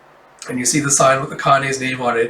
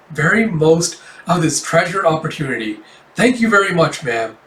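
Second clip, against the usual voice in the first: mildly stilted formal speech; overly polite; 2 semitones higher than usual. Acted. Teen performer introduces herself to the cafe owner, overly polite. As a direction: recite it with earnest, over-careful courtesy. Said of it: "I was just being polite".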